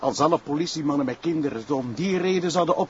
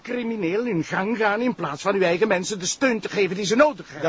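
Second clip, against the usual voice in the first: angry accusation; 3 semitones higher than usual. Acted. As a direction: accuse him to his face. Sergeant confronts prosecutor angrily. (boze beschuldiging)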